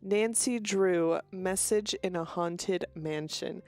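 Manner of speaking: slow, careful title read; deliberately slowed-down title; said slowly. Shown as a demonstration. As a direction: spell out the game title slowly and clearly. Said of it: "I said that very fast".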